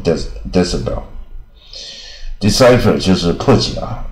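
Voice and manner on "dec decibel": "decibel" as DESS-uh-bel; American reading. Shown as a demonstration. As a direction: say "decibel" with a weak middle vowel. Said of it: "美国人常念".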